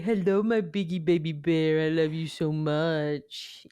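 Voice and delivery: lightly cooing pet voice; baby-talk lovingly to a pet. Shown as a demonstration. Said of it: "my baby talk is to Biggie".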